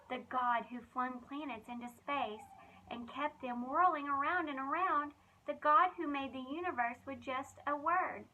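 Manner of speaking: lively, expressive storybook reading; reading to children. Acted. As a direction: tell it like a bedtime Bible story for kids. Reads Bible story to children.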